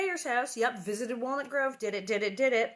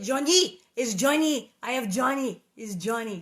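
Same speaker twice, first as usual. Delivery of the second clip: mock fan excitement; 2 semitones higher, 9 dB louder than usual. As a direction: squeal his name like a playful fan. Hammed-up cry for a French singer.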